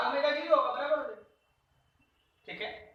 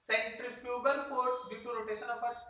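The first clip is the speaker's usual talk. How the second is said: slow and clear; 3 dB quieter, much slower than usual. Shown as a demonstration. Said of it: "ये भी बोल सकते हो".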